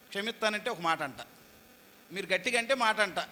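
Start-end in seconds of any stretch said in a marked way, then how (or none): none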